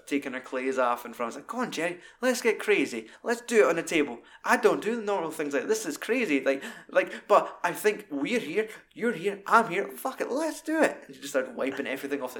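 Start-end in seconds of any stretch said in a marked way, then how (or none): 1.5-6.4 mock breathy come-on, pitched higher; hammed-up crazed fan seducing Jerry; seductive stalker. Woman seducing Jerry, voiced. 7.3-11.0 mock breathy come-on, pitched higher; hammed-up crazed fan seducing Jerry; seductive stalker. Same stalker voice, rising.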